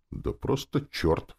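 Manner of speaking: high, drawn-out dismissal; snorting. A narrator's reading. Demon dismissing a rival devil, scornful. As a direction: scoff it away. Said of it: "фыркнула демон".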